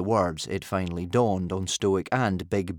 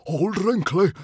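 high, loud, shocked gasp; gasped appeal; 11 semitones higher, 7 dB louder than usual. A narrator's reading. Stoic appealing to the timekeeper, gasping in shock. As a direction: gasp out a desperate plea. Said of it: "gasped Stoic".

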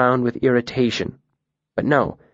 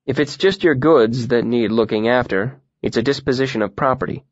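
matter-of-fact. Acted. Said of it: "the innkeeper said matter-of-factly".

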